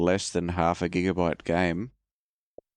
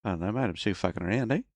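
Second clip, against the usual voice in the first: bad Australian accent. Announcing bad accent time, then playing an Aussie bloke. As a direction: lay on a cheesy Australian accent. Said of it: "Bad accent time".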